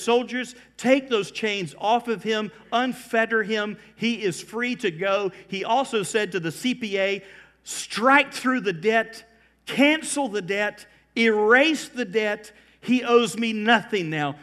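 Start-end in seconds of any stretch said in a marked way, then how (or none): 0.0-5.3 raised, higher commanding voice. Acted. King orders soldiers to free the servant, commanding. 7.6-14.4 loud, high, slow decree; emphatic command. Acted. King tells his accountant to cancel the debt, emphatic command.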